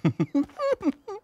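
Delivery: high gloating cackle; villain cackle. Acted. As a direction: cackle with glee. Villain laughs.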